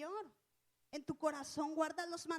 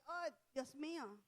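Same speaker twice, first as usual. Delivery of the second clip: 1 retold quiet gasp; 2 semitones lower, 7 dB quieter, slower than usual. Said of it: "y yo dije".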